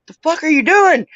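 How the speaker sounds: voicing the cat. Owner voicing the cat annoyed at being played with, indignant. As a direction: snap back like an annoyed cat. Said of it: "And she goes".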